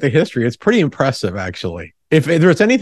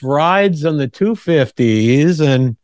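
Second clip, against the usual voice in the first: fortune teller. Pretend. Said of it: "Like we're one of the psychics you go and see".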